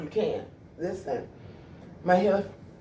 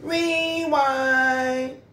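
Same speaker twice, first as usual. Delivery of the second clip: rewind; 6 semitones higher than usual. Real, not acted. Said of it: "Hold up, y'all".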